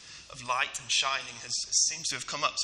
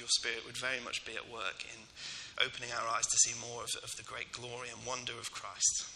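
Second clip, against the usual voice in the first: prayer. Acted. Leads the church in prayer.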